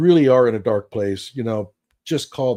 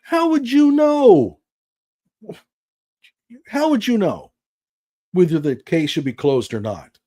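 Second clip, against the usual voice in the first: incredulous outburst; 6 semitones higher, 3 dB louder than usual. Real, not acted. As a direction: demand it in shock. Indignant outburst at caller.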